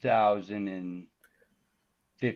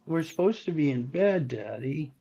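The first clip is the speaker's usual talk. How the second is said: imitating upset little one; 6 semitones higher than usual. Little one telling Daddy it is bedtime, mock upset. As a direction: put on a higher voice, plaintively scolding Daddy. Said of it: "upset that I haven't gone to bed".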